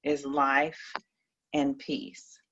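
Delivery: measured, solemn Bible reading; scripture reading. Acted. Reads Bible verses aloud.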